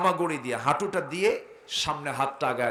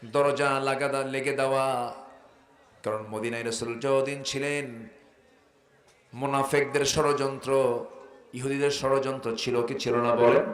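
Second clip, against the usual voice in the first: usual speaking voice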